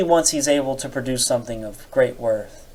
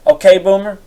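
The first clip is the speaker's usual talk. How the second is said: higher, louder okay boomer; louder mocking retort; 6 semitones higher, 6 dB louder than usual. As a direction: throw it back louder and snide. Repeated louder as reply.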